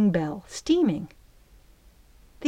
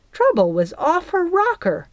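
ordinary delivery

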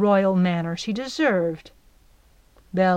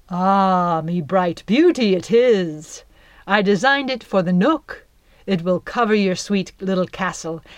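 lightly louder honeyed sales pitch; sly flatterer; 4 dB louder than usual. Acted. Jack sells the net to Belle, smoothly flattering. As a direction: sell the trap as a gift. Jack's persuading voice.

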